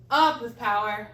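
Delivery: loud energetic fitness cue; powerful cue. Shown as a demonstration. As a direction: fire the words out with force.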